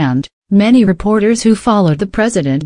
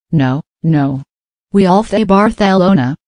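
faux Spanish accent. Noah mocking the Spanish lisp legend, faux Spanish accent. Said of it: "Noah joked in a faux Spanish accent".

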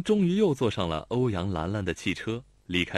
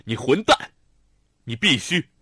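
louder angry curse; cursing; 3 semitones higher, 8 dB louder than usual. A narrator's reading. Xiao Tong curses Lanlan, flustered and angry. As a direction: swear at her, flustered. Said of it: "手足无措地骂".

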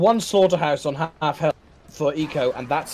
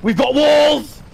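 excited; 9 semitones higher, 5 dB louder, much slower than usual. Real, not acted. Caster cheering during match.

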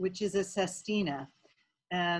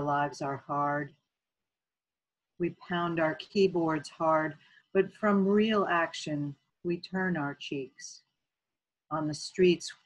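measured poem recital with pauses between phrases; poetry reading; 4 dB louder than usual. Acted. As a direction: read your poem out line by line, deliberately. Reads own poem aloud.

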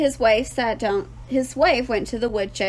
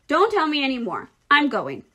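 higher, emphatic exclamation; crying out; 5 semitones higher than usual. A narrator's reading. Rat agreeing to go to the fair, crying out. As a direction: give in with a lively cry. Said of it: "cried Templeton".

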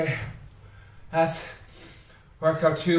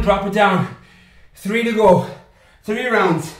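loud coaching call; 5 dB louder than usual. Real, not acted. Coach calling out rounds.

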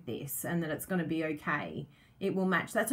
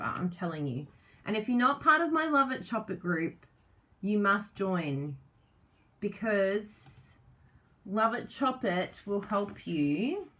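usual speaking voice

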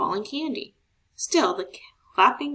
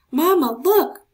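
higher, louder eager call; excited kid; 7 semitones higher, 8 dB louder than usual. A narrator's reading. Marco showing Mama his candy, high eager call. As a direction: show off proudly.

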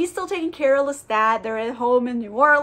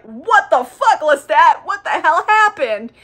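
loud, higher-pitched demand; hammed-up alarm, punched out louder; shocked outcry; 4 semitones higher, 6 dB louder, slower than usual. Friends seeing Lestat filthy and bloodied, loudly shocked.

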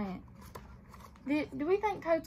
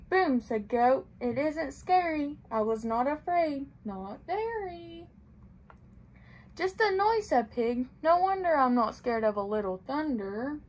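gentle storybook read-aloud; reading to children; 3 dB louder, slower than usual. A narrator's reading. Librarian reading a picture book to children, gently.

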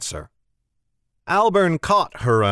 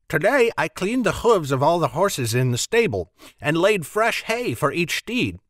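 higher, proud youth listing chores; boastful Jem; 3 semitones higher than usual. Acted. Jem boasting about his chores, proud. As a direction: puff up with self-importance.

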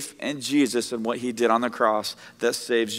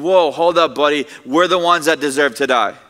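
casual rebuke; 2 semitones higher, 7 dB louder than usual. Retold or imitated. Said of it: "the other is saying".

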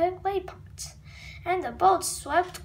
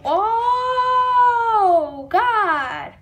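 loud, high laughing fit; cracking up, almost crying; burst of laughter; 4 semitones higher, 8 dB louder than usual. Real, not acted. Kids cracking up at their own comic, loud laughter.

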